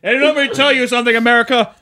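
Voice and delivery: loud, high candidate speech; politician voice. Pretend. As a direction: address the nation like a candidate. Mock candidate addresses America.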